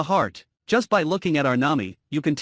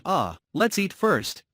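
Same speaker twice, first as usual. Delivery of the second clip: sighing; 2 semitones higher, much slower than usual. Acted. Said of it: "while sighing".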